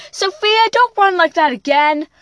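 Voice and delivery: mother scolding her daughter for running away. Acted. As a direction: tell the child off firmly.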